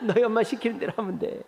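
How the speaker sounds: 너희 엄마 시키는 대로 하면 돼 said through a light chuckle; laughing. Retold or imitated. Father answering his son with a laugh. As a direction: let a laugh run under the words. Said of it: "웃으면서".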